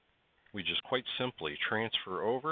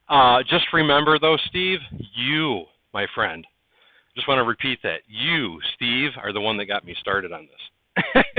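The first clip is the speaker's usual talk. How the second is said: louder, emphatic thanks to a friend; lively thanks; 4 semitones higher, 9 dB louder than usual. Real, not acted. Streamer crediting Steve for his hobby, louder and emphatic. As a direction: stress each word of the credit.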